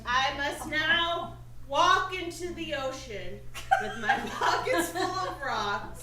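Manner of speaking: slow, mock-tragic line reading; slow, overwrought stage delivery; tragic dramatic line. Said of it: "take on this role".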